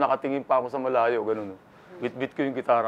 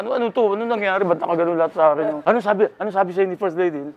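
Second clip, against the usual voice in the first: pitched up, rushed flustered questions; flustered reporters; 4 semitones higher, faster than usual. Retold or imitated. Reporters crowding him after the show, flustered and pitched up. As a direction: fire off questions like a frantic reporter. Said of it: "Kaya tarantan-taranta".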